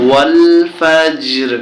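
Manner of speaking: ফজর ends on a bare r, no "ri"; stopping pronunciation. Shown as a demonstration. Teacher shows how to stop at the verse end, ফজর with vowelless r. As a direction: stretch ওয়াল, then close ফজর on the r without a vowel. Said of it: "বলতে হবে এরকম".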